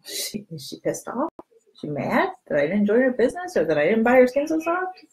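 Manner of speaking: hushed, worried friend wondering if you're mad; a friend fretting under her breath; second-guessing friend, hushed and unsure; worried friend's inner voice. Acted.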